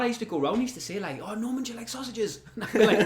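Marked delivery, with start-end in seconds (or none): 1.2-2.4 higher, half-laughing dad voice; mock dad's sly offer; imitating friend's dad. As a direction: tease like an odd older man. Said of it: "I remember your dad".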